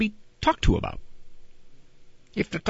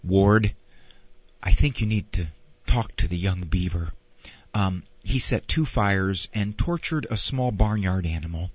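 low, softer, measured mother voice; June; 10 semitones lower, 5 dB quieter than usual. Acted. Wife reporting the son's misdeeds to Ward, calm and low. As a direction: calmly report to your husband, low and understated. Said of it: "June would say".

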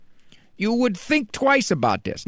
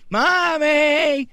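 high whispered mommy; toddler whisper; 8 semitones higher than usual. Acted. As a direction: whisper it like a little kid.

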